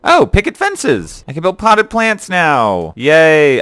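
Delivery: high, drawn-out squeal of delight; gleeful, high-pitched and stretched out; excited. Real, not acted. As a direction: celebrate a long-hunted find. Delighted by a find in game.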